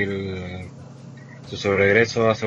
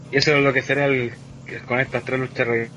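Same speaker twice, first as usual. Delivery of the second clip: choppy, robotic online call audio; broken-up voice over a bad connection; laggy robotic connection; 3 dB quieter than usual. Real, not acted. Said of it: "te escucháis súper lag".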